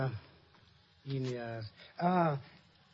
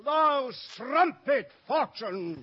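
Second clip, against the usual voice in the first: player declaiming; stagey fake archaic declaiming; 3 semitones higher than usual. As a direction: play it big, like a ham actor. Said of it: "This is too long".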